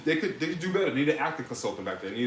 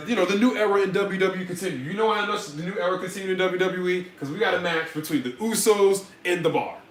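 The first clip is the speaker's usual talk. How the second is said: sarcastic; 4 semitones higher than usual. Acted. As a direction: fake excitement about the new era. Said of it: "that was sarcasm, people".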